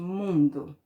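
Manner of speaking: "mundo" said slowly, weight on the first syllable "mun"; stress on MUN. Shown as a demonstration. Teacher shows pupils the strong syllable, first-syllable stress in "mundo". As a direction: lean on "mun" in "mundo", let the "do" drop. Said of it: "aonde eu falo mais forte?".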